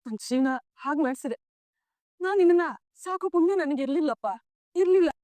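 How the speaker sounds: rising into a high, tearful lament; mother breaking down with regret. Acted. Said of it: "ಅಳ್ಬೇಡ ಅಮ್ಮ". (ಅಳುತ್ತಾ, ನೋವಿನಿಂದ)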